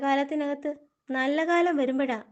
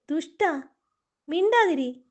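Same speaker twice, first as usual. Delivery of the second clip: furious hush-up; angry snap; 3 semitones higher, 4 dB louder than usual. Acted. Angry rebuke of the chatterbox.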